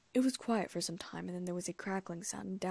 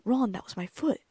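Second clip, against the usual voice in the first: louder, pained reproach; indignant complaint; 3 semitones higher, 8 dB louder than usual. A narrator's reading. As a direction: scold him for stepping on you. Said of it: "Hermione gasped suddenly".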